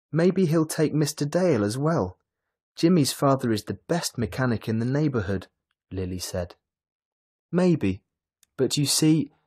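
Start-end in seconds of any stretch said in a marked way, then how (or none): 0.1-5.5 put-on higher, louder eager girl; eager hope. A narrator's reading. Lily pressing her father with new hope, eager. Hopeful daughter persuading father. 7.5-9.3 raised, wavering objection; hesitant father. A narrator's reading. Father hedging against his daughter's plea, hesitant.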